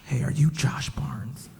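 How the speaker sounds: slow, soft whispered question; hesitant quiet fan; hushed fan. Retold or imitated. Fan approaching at the mall.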